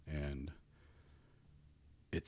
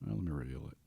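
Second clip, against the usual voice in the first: whispering; 3 semitones lower, 5 dB quieter, much faster than usual. Real, not acted. GM quietly reveals a secret.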